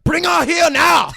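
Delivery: put-on high, loud, slow Asian-accent command; hammed-up Asian accent, shouted order; mock Asian accent. Joins in the accented river scene.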